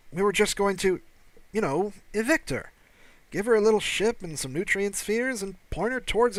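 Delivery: alien security officer. Acted. Officer defends eviction plan.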